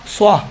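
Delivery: سوا with a thick, heavy s; heavy saad. Shown as a demonstration. Teacher thickens seen into saad, heavy. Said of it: "اسی سین کو آپ موٹا پڑھیں".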